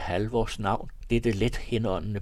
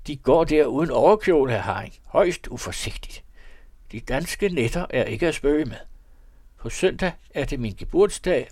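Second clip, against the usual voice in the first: high, loud, busy voice of a priest in his carriage; fussy old priest calling; 6 semitones higher, 5 dB louder than usual. A narrator's reading. The priest invites Haring to his birthday, high and loud. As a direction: bustle and fuss, calling down from the carriage. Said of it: "råbte han".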